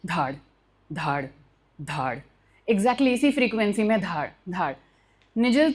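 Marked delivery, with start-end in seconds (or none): 0.1-2.2 low, soft thud noise imitating a knock from the car; imitated thud. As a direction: mimic a dull knock, low and quiet. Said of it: "आवाज़ आ रही है धाड़".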